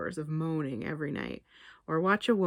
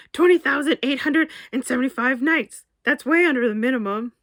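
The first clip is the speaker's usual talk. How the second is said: much higher, louder incredulous protest; shocked outburst; 6 semitones higher, 8 dB louder than usual. Acted. Barry protests Damien's transfer, loud and incredulous. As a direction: blurt it out in disbelief.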